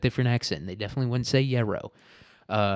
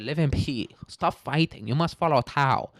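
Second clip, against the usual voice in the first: mock Chinese accent; 4 semitones higher than usual. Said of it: "he said".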